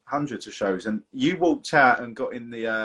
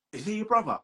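imitating a singer; 6 semitones higher than usual. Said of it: "Like that".

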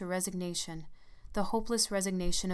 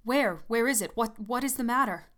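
alarmed; 4 semitones higher, 6 dB louder than usual. Acted. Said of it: "He started up in alarm".

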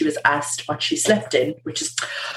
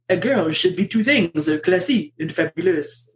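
amateur French accent, lightly put on. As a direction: read it out in a mock French accent. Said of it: "read this out in a French accent".

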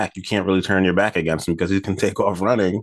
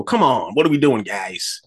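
lightly put-on frog voice, pitched up; higher, exasperated plea, dropping off at the end; Mahomes's Kermit the Frog voice; 3 semitones higher than usual. Quarterback pleading with his teammates, a hint of Kermit. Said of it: "in his Kermit the Frog voice".

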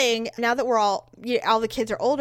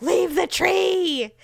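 higher, very slow exasperated repeat; exasperated disbelief; 9 semitones higher, 4 dB louder, much slower than usual. Retold or imitated. Mother repeating the kids' excuse. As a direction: drag it out in disbelief.

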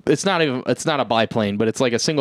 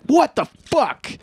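shocked outburst; 11 semitones higher, slower than usual. Retold or imitated. Being shot at.

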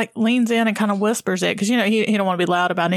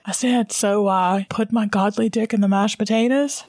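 repeated as a question. Retold or imitated. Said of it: "he repeats it again and he said".

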